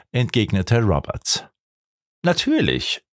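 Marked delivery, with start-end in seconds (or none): 2.2-3.0 higher, confident call; quick outburst of certainty without shouting; prompt exclamation. A narrator's reading. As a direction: jump in at once, pitched up. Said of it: "rief Mister Gordon sofort aus".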